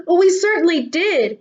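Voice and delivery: put-on high, loud, delighted kids; cried out. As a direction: shout it with relief and joy. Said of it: "cried all the kids".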